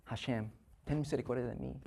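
quiet plea. Retold or imitated. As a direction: murmur the prayer like a groan. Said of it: "empieza ya el, el gemir". (súplica suave y gimiente)

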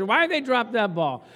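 hammed-up annoyed sports fan; mock yelling. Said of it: "She's yelling at the T V".

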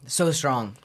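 whisper. Pretend. Mock ASMR whisper.

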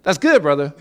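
flat mocking echo of the pastor; mocking repeat. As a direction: parrot his bland reply. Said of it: "And I'm like".

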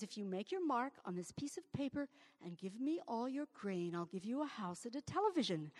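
hushed trickster whisper. Acted. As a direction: lean in and tempt in a whisper.

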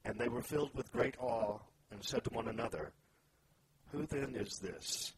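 measured reading aloud with deliberate pauses; solemn storytelling from scripture. Acted. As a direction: read the Bible passage out, phrase by phrase. Reads scripture aloud to open discussion.

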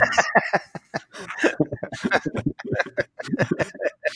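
hohes hauchiges Auflachen; Prusten. Real, not acted. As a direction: loslachen. Lacht über Kurt-Eschbacher-Ansage. (hauchiges Auflachen)

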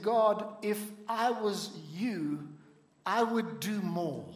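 slow, humble plea, barely above his own voice; a mild, modest request to God; understated humble plea; with humility. Retold or imitated. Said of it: "he said it with humility".

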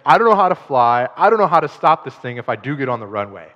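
loud, alarmed cry of a novice pilot; panicked passenger. Retold or imitated. Pastor voices the stranded passenger, loud and panicked. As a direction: shout it like you can't fly the plane.

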